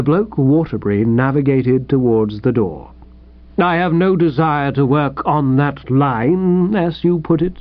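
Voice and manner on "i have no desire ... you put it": measured, with offended dignity; stiff. Acted. Snubbed writer answers the editor at the door, stiffly. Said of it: "he said stiffly".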